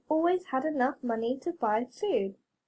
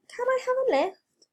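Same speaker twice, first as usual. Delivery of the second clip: beaming; 11 semitones higher than usual. A narrator's reading. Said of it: "beamed Brer Rabbit".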